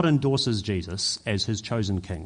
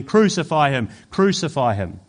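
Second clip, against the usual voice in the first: raised-voice imitation of a shouting crowd; retold crowd shout; 5 dB louder than usual. Preacher retelling the crowd at Jesus' trial, mild mock shout. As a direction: call it like a mob, held short of screaming.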